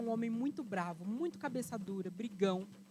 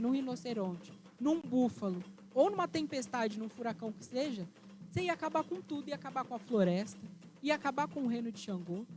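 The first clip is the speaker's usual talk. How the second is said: amused explanation; 3 semitones higher than usual. Acted. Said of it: "olha pra ela e ri".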